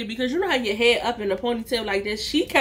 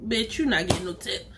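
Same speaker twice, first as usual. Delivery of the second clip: low muttered aside; 5 semitones lower, 6 dB quieter than usual. Retold or imitated. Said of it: "so I'm like".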